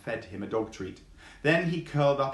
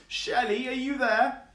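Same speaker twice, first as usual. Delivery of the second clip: pitched up, calling out; high calling tortoise; 13 semitones higher, 3 dB louder than usual. Acted. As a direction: call for a lost friend in a high voice.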